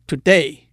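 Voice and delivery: today with the weight on day; light-heavy stress. Shown as a demonstration. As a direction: punch the second syllable of today, loud. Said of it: "是轻重".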